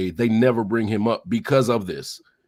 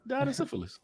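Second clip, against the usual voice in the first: laughing; 12 semitones higher, 10 dB quieter, faster than usual. Real, not acted. Repeats it while laughing.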